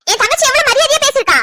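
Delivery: indignant defence. Acted. Angry defence of her sister.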